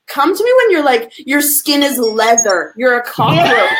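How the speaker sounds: mock tough answer. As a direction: tease her, half laughing. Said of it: "I'm like".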